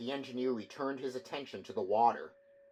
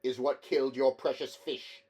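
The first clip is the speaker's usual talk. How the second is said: accusing engineer; 3 semitones higher, 6 dB louder than usual. A narrator's reading.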